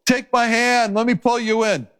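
high, pleading offer of help; urgent rescuer. Acted. Rescuer in a lifeboat to someone in the water, urging. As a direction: call out as an acted rescuer, pitched well up. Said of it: "Imagine a rescuer again in a lifeboat".

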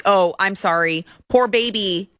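sarcastic there-there voice; sarcastic pity. Real, not acted. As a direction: coo at a crybaby millionaire. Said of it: "cry me a river".

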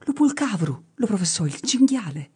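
high, half-shouted shepherd's answer; almost shouting. A narrator's reading. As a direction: pipe the answer up high, just short of a shout. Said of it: "e quasi gridando gli rispose".

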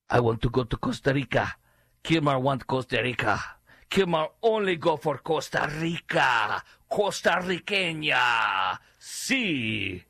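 broken English in a put-on Hispanic accent; mock Hispanic accent. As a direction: imitate a demanding Hispanic accent, drawing out the country. Acts Kilmar with foreign-accented broken English.

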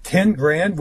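mild disbelieving question, rising; incredulous. Retold or imitated. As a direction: echo the price in mild disbelief. Speaker repeats price in disbelief.

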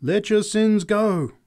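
high, loud, long-drawn exhortation; preacher's cry. A narrator's reading. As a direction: cry it out slowly to the crowd. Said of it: "she cried".

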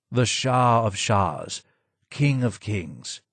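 slow, a touch of sorrow in the title; slow mournful murmur of a broken advisor. Acted. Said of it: "more sad than angry".

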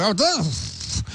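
lightly imitated alien voice; hint of a glitchy alien; ET Bilu voice. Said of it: "Ficou uma voz".

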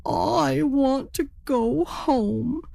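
high, slow, plaintive plea; tearful turkey. Acted. Homesick turkey tells the raven, high and slow. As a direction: whimper it, homesick.

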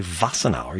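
Wassenaar with a V sound; wrong German-style pronunciation. Shown as a demonstration. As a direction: say Wassenaar as if it began with V. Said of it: "you don't say Wassenaar".

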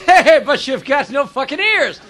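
lightly voiced Irish accent, drawn out; hint of a slow Irish accent; Irish guy. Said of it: "The Irish guy says".

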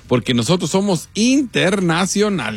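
"internacionales" drawn out syllable by syllable; slow, spelled-out "internacionales"; stress on internacionales. Real, not acted. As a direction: stretch "internacionales" slowly, beat by beat. Proud boast to the audience.

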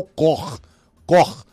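a sílaba cor, bem marcada; stressed syllable cor. Shown as a demonstration. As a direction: hit the syllable cor on its own. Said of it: "a sílaba forte é".

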